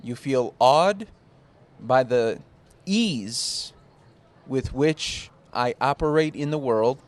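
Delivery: slow, solemn scripture reading; drawn-out reverent reading; mock biblical speech.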